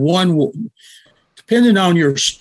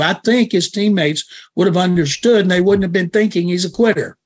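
ordinary talk, nothing marked

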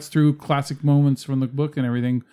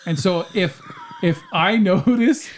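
laughing; 5 semitones higher than usual. Real, not acted. Laughs heard on these lines.

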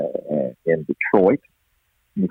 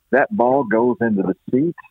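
imitating Ernie Harwell; 3 semitones higher than usual. Old broadcaster lightly mimics Ernie's home-run call, a hint of his southern lilt. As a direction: lightly voice the old broadcaster's folksy call as the ball lands in the seats. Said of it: "that little quirky thing he had".

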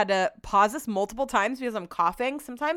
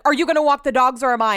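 mock passive-aggressive husband, louder; 3 semitones higher, 5 dB louder, faster than usual. Husband asking who walks the dogs, imitated as passive-aggressive. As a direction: needle them with a pointed question, imitating him. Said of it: "he's so passive aggressive too".

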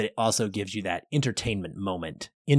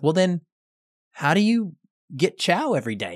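sly gotcha; 6 semitones higher than usual. Retold or imitated. Kaffee's sly follow-up.

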